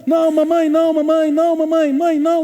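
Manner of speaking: high, very loud drawn-out shouts of protest; imitated child's screaming. Pastor imitates boy screaming to mother before baptism, screaming in protest. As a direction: act out a frightened boy screaming for his mother. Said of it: "começou a gritar assim".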